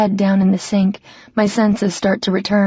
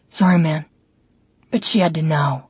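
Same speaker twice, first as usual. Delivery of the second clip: lightly voiced man, a touch lower, sorry; apologetic drunk brother; 4 semitones lower than usual. Drunk brother apologizing to her in the doorway, lightly voiced.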